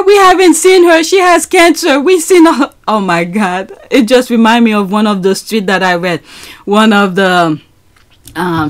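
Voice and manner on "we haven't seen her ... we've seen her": higher, mock-whiny imitation; sing-song mock complaint. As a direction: parody the rumour-mongers. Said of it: "mocking tabloid claims".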